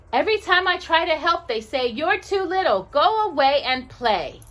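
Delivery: put-on little boy voice. Little boy telling the angel his woes, lightly childlike. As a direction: grumble like a left-out little boy.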